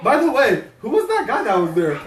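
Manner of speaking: high, laughing retold question; laughing mock question. Owners asking who the stranger was, laughing. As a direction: asks through laughter.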